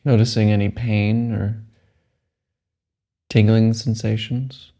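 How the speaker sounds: slow, measured meditation guide; unhurried phrases with long, restful pauses; guided meditation. Acted. Guide telling a meditator to let the body relax, calm meditation voice.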